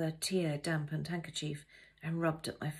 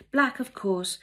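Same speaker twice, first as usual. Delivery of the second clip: maid Dora; 6 semitones higher, 9 dB louder, slower than usual. Pretend. Dora answers cook.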